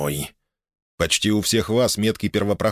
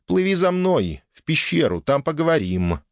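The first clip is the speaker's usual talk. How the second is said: put-on elf girl voice; 7 semitones higher than usual. A narrator's reading. Elf girl's quote voiced high.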